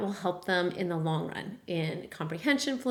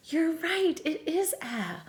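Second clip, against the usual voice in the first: cheerful praise; 7 semitones higher, slower than usual. Pretend. Praising child in lesson.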